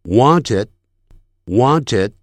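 "wanted" with the final d stopped, not released; natural unreleased d. Shown as a demonstration. Teacher showing how foreigners say "wanted", final d held back. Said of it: "他在正常的英语速度的时候".

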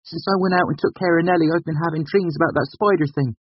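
put-on high-pitched boyish self-justifying; defiant mumble. A narrator's reading. Prentice explaining himself to Carter, mumbling defiantly. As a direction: mutter an excuse, slightly defiant. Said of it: "he mumbled with a hint of defiance".

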